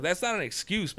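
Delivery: sarcastic repeat of "That's not an excuse" up high; mocking echo. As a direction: throw the cop's "That's not an excuse" back at him mockingly. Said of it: "I was like".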